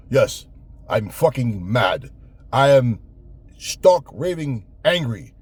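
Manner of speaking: slow, emphatic parody of a fighter's outrage; hammed-up mock anger. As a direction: overact being pissed off, drawing the words out. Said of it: "all that acting he was doing".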